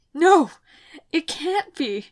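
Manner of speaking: loud, high anguished yell; desperate denial over a dying mentor. A narrator's reading. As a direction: shout it in disbelief. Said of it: "I yelled".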